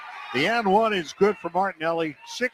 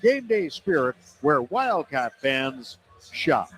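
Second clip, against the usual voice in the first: chipper 1950s ad. Acted. Upbeat fan store ad.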